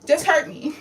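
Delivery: rapid-fire punching words, in bursts; acting out a fit. Shown as a demonstration. Venting mother acts out hurting herself, in agitated bursts. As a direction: punch out each blow in quick bursts.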